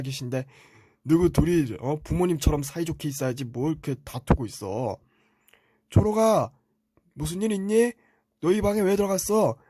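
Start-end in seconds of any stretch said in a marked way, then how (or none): 5.9-9.6 put-on higher-pitched parent checking on a child; imitated parent. Parent asks 초록 why he went in the room, in a higher voice. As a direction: call out questioningly as a parent.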